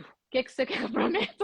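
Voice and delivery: pergunta reencenada com riso no meio; rindo ao falar. Retold or imitated. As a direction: deixe o riso escapar na pergunta. Ri ao reencenar sua resposta. (pergunta entre risos)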